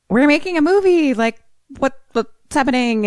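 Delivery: high, exasperated wife voice; upset wife. Retold or imitated. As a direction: play the frantic wife.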